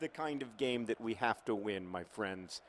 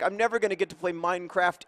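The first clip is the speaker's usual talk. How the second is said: put-on dramatic kid wail; 7 semitones higher, 9 dB louder than usual. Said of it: "then Henry will say".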